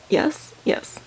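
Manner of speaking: breathy whispered yes, yes; quiet whispered relief. Real, not acted. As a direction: whisper it to yourself as you check. Checking the card set quietly.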